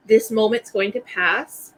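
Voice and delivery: sit beside them and soothe gently; calm reassurance. Shown as a demonstration. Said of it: "That's not what you say".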